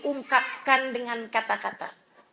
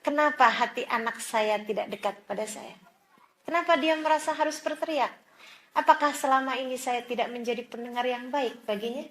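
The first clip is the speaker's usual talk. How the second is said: soft self-questioning; 3 semitones lower, 6 dB quieter than usual. Shown as a demonstration. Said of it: "tapi bertanyalah".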